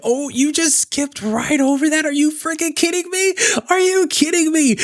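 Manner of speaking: high, strained disbelief; can't believe what you just saw; incredulous outrage. Real, not acted. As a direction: voice cracking up in outrage. Outraged reaction to skipped clip.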